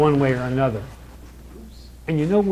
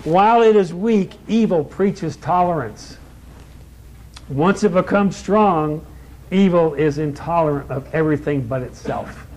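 preaching a quotation. Real, not acted.

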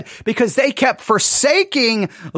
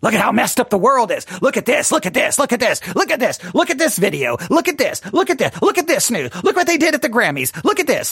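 rising, faster, pointing-finger gossip; mock outraged churchgoer; faster than usual. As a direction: lampoon a scandalised church member waving videos. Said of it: "'Cause the church is good at that".

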